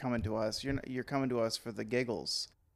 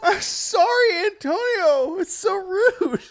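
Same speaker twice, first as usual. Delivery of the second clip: high laughing pirate voice; 10 dB louder, much slower than usual. Pretend. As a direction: ham up a pirate apology through laughs. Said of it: "I'm laughing at the pirate voices".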